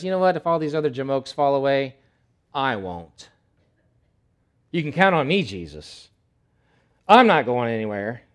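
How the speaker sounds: loud, cocky bragging to the other guys; brash Peter. Acted. Peter brushing off the other disciples, loud and cocky. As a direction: puff up and brag. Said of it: "and he says".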